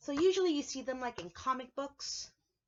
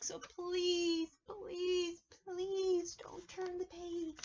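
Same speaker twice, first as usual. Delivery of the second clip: pleading Grover; 4 semitones higher than usual. Acted.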